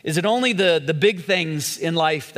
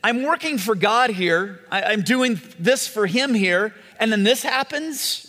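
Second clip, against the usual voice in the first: higher, indignant inner voice; exasperated complaint; 5 semitones higher than usual. Retold or imitated. Servant complains to God about his broken work, exasperated. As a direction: protest that it isn't fair. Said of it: "we're thinking".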